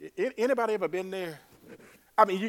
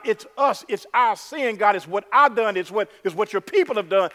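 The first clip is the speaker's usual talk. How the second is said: louder, higher, pleading confession; confessing cry; 4 semitones higher, 5 dB louder than usual. Pretend. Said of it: "rather than crying out to God".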